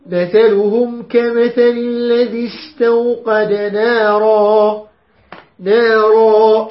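slow, drawn-out tajweed recitation; measured Quran reading with long madd; Quranic recitation. Shown as a demonstration. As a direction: recite it slowly, stretching the vowels. Teacher recites verse for students.

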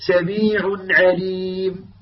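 slow recited سميع عليم with a brief light nasal; light ghunna. Shown as a demonstration. Teacher ending with the correct light ghunna. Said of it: "غنة خفيفة لأنه لا يوجد عليها شدة".

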